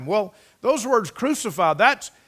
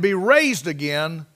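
slow, weighted stress on "raised again"; emphasis on RAISED AGAIN; slower than usual. Real, not acted. Preacher reading scripture to congregation, stressing "raised again". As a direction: lean on "raised again", drawn out slowly. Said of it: "Emphasis on raised again".

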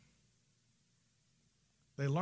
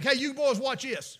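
redneck boast; 7 semitones higher, 7 dB louder than usual. Retold or imitated. Redneck's famous last words.

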